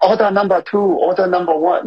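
high-pitched mock Asian accent of a kitchen cook calling orders. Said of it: "does a, an Asian accent".

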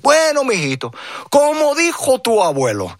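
a hint of a fond old papa; dad's voice. Dad voiced quoting grandfather.

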